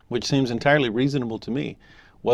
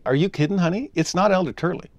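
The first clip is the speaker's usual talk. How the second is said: incredulous husband; 6 semitones higher than usual. Retold or imitated. Isaac doubting his wife about the visitor, mock incredulous and raised. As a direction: pitch jumps up in mock disbelief.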